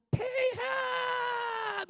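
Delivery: very high, drawn-out court wail; high-pitched mock courtier, stretched right out; eunuch voice. Shown as a demonstration. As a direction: call out in a loud, long falsetto. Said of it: "이래 간신 목소리 같아요".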